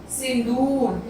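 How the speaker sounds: सिंदूर said slowly with a long दू; slow teaching model. Shown as a demonstration. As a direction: stretch the दू in सिंदूर. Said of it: "दू पे long press हो रहा है".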